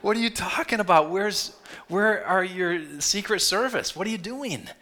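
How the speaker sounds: high, loud, incredulous disbelief; baffled surprise. Retold or imitated. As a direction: act stunned by the absurd request. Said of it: "you would be like".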